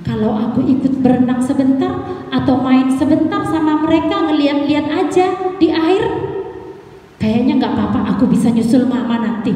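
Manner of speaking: a hint of a cub talking himself into mischief; little bear Imo. Little bear deciding to wander off, lightly voiced.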